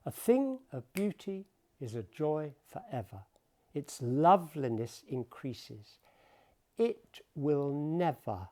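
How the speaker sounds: measured, unhurried reading of Keats; poetry recitation. Acted. Lecturer reading Endymion aloud to the class, measured recitation. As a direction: let each line breathe like music.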